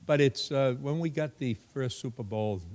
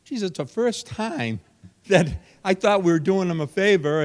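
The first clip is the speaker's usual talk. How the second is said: retold exclamation; 9 semitones higher, 7 dB louder than usual. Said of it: "And I said".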